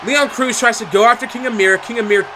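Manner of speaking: live ringside play-by-play, rising hype; wrestling commentator. Acted. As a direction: call the action like a ringside announcer.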